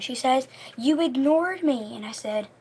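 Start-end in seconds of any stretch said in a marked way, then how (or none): 0.8-2.0 higher, slow wounded complaint, imitated; mock crying. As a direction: imitate her tearful accusation.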